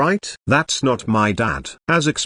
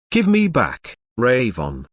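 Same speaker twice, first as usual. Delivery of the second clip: pleading cry. Acted. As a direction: cry out to take him back. Child's pet about to be eaten.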